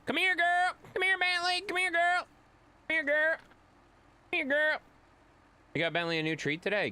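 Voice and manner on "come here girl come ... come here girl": excited dog-calling yell. Real, not acted. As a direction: shout her over, pitched way up.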